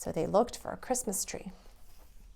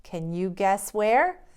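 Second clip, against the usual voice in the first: playful; 3 dB louder, slower than usual. Acted. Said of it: "with a twinkle in his eye".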